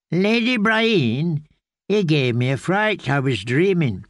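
startled from sleep, a hint of an old man's voice; drowsy old man, lightly voiced; old grey man. Old grey man wakes, speaks.

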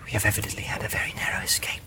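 hushed Frodo whisper. Acted. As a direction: whisper urgently while hiding. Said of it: "Frodo whispered".

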